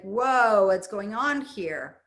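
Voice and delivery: a touch of startled alarm, Whoa burst out loud; lightly voiced fearful mind, startled. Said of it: "the fear in the mind is like".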